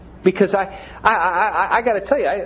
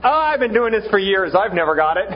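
breezy reassurance; 5 semitones higher than usual. Retold or imitated. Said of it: "Ton goes".

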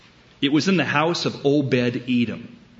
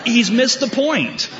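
amused; 11 semitones higher, 4 dB louder than usual. Real, not acted. Punchline remark, amused.

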